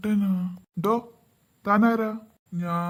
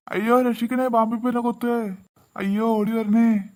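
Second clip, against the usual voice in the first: hammed-up panic; 3 semitones higher than usual. Scared husband calling for help from the snake. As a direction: yell for help as if the snake strikes.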